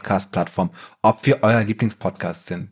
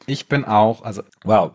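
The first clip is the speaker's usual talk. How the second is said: Frosch im Hals. Real, not acted. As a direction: voice catching on a frog in the throat. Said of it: "ich hab irgendwas im Hals". (mit Frosch im Hals)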